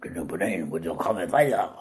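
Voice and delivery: low, garbled fake Swedish accent; comically unconvincing Swedish accent; bad Swedish accent. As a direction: mangle the words in hopeless mock Swedish. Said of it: "somebody with a Swedish accent".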